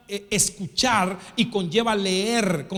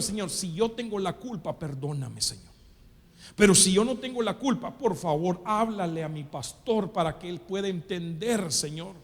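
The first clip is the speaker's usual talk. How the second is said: softer, lower humble prayer; retold prayer; 3 semitones lower, 4 dB quieter than usual. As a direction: pray quietly and humbly. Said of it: "lo que le decía al Señor". (oración humilde y suave)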